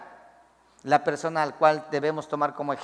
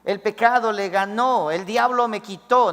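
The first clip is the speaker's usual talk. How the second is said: higher, wailing lament; hammed-up complaint about the devil; imitating a wife crying over her husband; mock weeping wife; 4 semitones higher, 3 dB louder than usual. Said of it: "Vas a llorar, decir".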